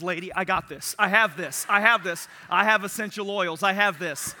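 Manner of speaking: wife pushing the lifeguard aside; a hint of a take-charge mom; mama mode. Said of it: "Jess got into mama mode".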